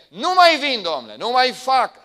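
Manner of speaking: loud, high complaining inner voice; hurt feelings talking back; voicing the feelings. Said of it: "sentimentele astea îți pot spune".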